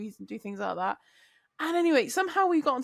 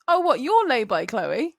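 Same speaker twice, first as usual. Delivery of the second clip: imitating boss; 2 semitones higher, 6 dB louder, slower than usual. Boss blurting out Chloe's secret, imitated teasing. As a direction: toss it out like a careless joke. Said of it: "my boss goes".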